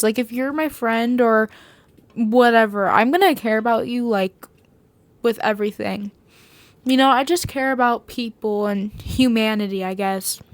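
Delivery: talking while chewing gum. Real, not acted. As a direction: speak around a piece of gum. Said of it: "I have gum in my mouth".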